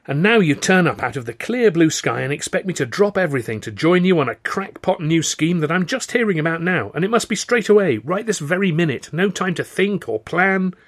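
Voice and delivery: loud, high, indignant tirade; exasperated outburst. A narrator's reading. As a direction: let the pent-up frustration pour out. Exasperated quarrel, calls him infuriating.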